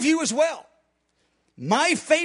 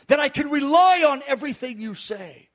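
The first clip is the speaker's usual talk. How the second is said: sincere prayer; 3 semitones higher than usual. Shown as a demonstration. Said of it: "I like to say that".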